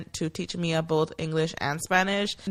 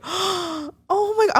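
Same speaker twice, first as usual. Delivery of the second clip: much higher, slow mock squeal of oh my God; retold scream; 11 semitones higher, much slower than usual. On seeing the Instagram post, a high slow mock squeal. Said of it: "I literally screamed".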